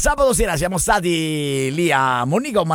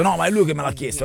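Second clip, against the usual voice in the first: ordinary talk, nothing marked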